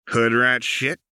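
high, smug and playful; cheeky Jinx. Acted. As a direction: toss it off with a grin. Jinx's cheeky reply.

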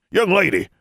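high, loud indignant call; indignant shout. Acted. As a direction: call her back in outrage. Wizard calls after her.

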